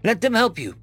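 croaked plea. A narrator's reading. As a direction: stammer it out, straining upward. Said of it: "I croaked".

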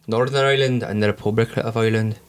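badly faked Irish accent; a low, dubious stab at an Irish accent; Irish accent done as a travesty; mock Irish accent. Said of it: "that travesty that has just come down the microphone".

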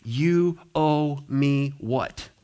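slow, disbelieving demand; mock outrage, drawn out; mock indignant. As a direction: sound offended at being owed. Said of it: "can it come out of my mouth".

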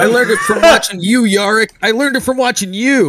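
put-on high, loud whiny kid yell; commissar's boys blaming Yarrick; anti-drug ad kid. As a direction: shout it like the accusing kid in the ad. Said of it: "where did they get the idea".

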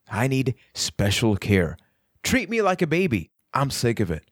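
mock your own plea lightly, ending back near normal pitch; self-mocking. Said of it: "you could tell I was mocking myself".

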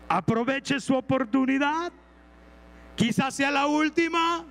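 slow, weighty warning; grave, slowed-down admonition; solemn warning. Retold or imitated. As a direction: press each word slowly so it sinks in.

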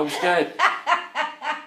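high, slow laughing protest; laughing panic. Real, not acted. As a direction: squeal it out nervously. Nervous confused outburst, laughing.

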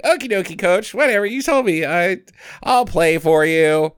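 high, singsong mock compliance; goofy player voice. Player giving in to his coach, high goofy singsong. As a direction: chirp it up high like a dopey player. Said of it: "Jack's like".

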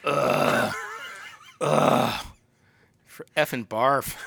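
loud drawn-out groans of disgust, then a scoff. Acted. Co-host mocks singer-songwriter fans with loud disgusted ughs. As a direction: groan it out like you might be sick.

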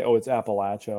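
Appalachia with a short-a LATCH, as a correction; correcting pronunciation. Retold or imitated. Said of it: "people correct me and say".

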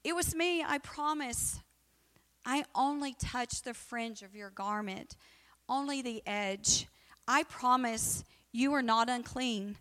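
lightly voiced pleading woman. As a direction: confess it earnestly as the woman. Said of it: "she told him the truth".

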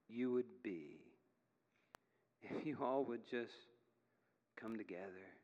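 softly, with measured pauses, an earnest appeal; quiet pleading. Acted. God looking down at the churches, quiet pleading. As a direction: plead gently, letting each phrase fall away.

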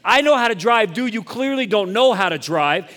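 retold road-rage outburst, high and punched; welling up with anger. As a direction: replay your outrage at a bad driver. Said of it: "I find myself welling up with anger".

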